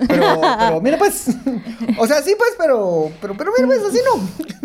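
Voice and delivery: squeaky, high, whiny protest; high mock pleading. Mocking the vendor's pleading.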